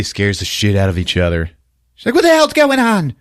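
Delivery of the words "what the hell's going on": high, indignant retold yell; hammed-up angry girlfriend; mock outrage. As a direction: demand it in a high acted voice.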